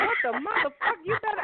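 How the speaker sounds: imitating a bossy small child swearing; cussing little girl. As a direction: play a six-year-old talking gangster. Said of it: "she had some cuss words".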